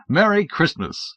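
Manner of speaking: put-on a slow, sunny Merry Christmas to a six-year-old; genial greeting. A narrator's reading. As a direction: greet the child like a jolly uncle. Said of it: "I said genially".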